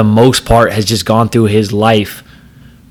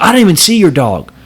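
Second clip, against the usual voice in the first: mocking the driver; 8 semitones higher than usual. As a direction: mimic the guy's defensive whine. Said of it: "He's like".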